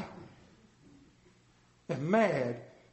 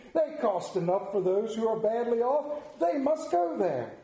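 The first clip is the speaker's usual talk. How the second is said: Scrooge; 4 semitones higher than usual. Acted. Scrooge lectures the charity men.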